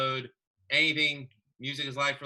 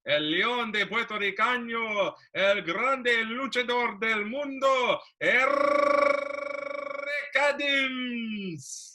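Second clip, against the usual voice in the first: booming wrestler boasts; 10 semitones higher, 6 dB louder, slower than usual. Pretend. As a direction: ring announcer voice, higher and louder. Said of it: "do my announcements".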